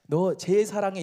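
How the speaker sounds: slow, softened doting words; acting out a tender, loving father; acted fatherly affection. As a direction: dote on a favourite son, drawing the words out. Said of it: "애정을 표현했다는 거예요".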